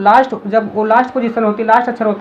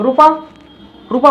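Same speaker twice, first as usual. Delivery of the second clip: said quickly. Shown as a demonstration. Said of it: "बोल देंगे जल्दी से".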